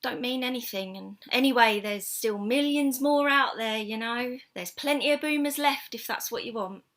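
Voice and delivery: lightly voiced blunt friend; Carol's forthright advice. Friend consoles Tina over the break-up, lightly acted, forthright. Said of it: "she said".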